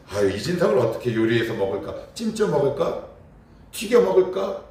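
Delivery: playful mock menace, rising toward the end; gloating devil. Preacher voices the devil gloating over prey, mock menace. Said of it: "잡은 먹이를 두고 포효하는 거래요".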